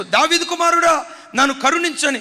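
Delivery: high, loud desperate cry for mercy; crying out like a madman. Retold or imitated. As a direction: call out to be heard over the crowd. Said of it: "పిచ్చోడు కేకలేసినట్టు కేకలేస్తున్నాడు". (పిచ్చోడిలా బిగ్గరగా కేక)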